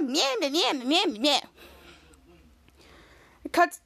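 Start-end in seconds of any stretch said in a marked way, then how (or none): 0.0-1.4 mocking meows. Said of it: "I'm Charlotte".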